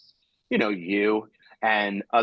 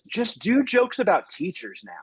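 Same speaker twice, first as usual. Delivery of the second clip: lightly mimicked heckler calling out, pitched up; 9 semitones higher than usual. Woman interrupting the comic mid-setup, mock heckle. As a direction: imitate an audience member butting in high. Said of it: "that was her heckle".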